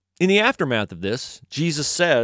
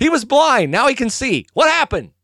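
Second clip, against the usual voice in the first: high, loud and insistent; demanding questioners; 11 semitones higher, 4 dB louder than usual. Acted. Officials press parents on how their son sees now, demanding. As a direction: press hard for an explanation. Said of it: "They go".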